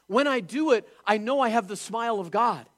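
preacher voices a believer's confident joy, loud and high; emphatic declaration. Acted. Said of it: "preaching, emphatic inner voice".

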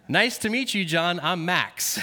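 put-on a light French-Canadian accent, lifted on meet; hint of French-Canadian accent introducing himself. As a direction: lightly imitate a French-Canadian hockey player's greeting. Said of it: "in a French-Canadian accent".

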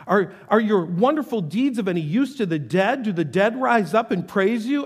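earnest scripture reading; solemn prayer reading; psalm reading. Acted. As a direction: read the psalm like a heartfelt prayer.

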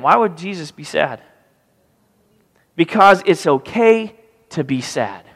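ordinary talk

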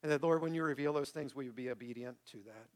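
sincere, measured public prayer. Real, not acted. Pastor closing the sermon in prayer, sincere and measured. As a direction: lead the congregation gently in prayer.

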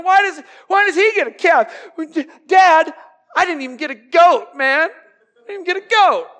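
high, loud whining complaint; whining jealous older brother; whiny older son. Retold or imitated. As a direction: sulk to Dad like a jealous kid. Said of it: "He's like".

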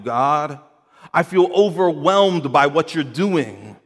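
lamenting psalmist. Acted. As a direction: plead with God as an overwhelmed believer. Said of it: "He's lamenting to his Lord".

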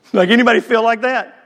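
ordinary delivery

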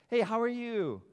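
high, loud hello to a friend; upbeat greeting. Acted. Churchgoer greeting a friend, upbeat. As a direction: greet them brightly, pitched well up.

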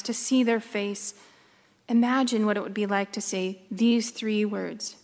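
measured, unhurried storytelling with pauses; guided meditation. Acted. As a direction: guide listeners gently into the scene.

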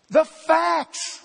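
punched out loud and high; emphatic. Real, not acted. Preacher driving home to congregation, emphatic. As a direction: hit the facts hard. Preacher hammering key point.

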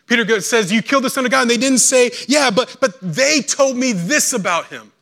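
loud, high, rising sermon climax; preaching at full force. Acted. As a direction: build the preaching to a ringing cry.

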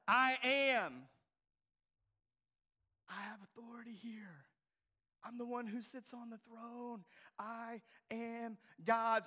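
whispered with calm authority. Acted. Voicing Jesus, soft then slow.

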